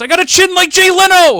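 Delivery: piercing all-out scream, very high and loud. Retelling a wrestling scene, imitating Mikey screaming. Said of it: "Mikey starts screaming".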